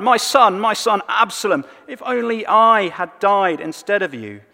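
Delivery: high, loud grieving father's cry; anguished cry. Retold or imitated. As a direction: cry out for a lost son. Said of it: "he cried out".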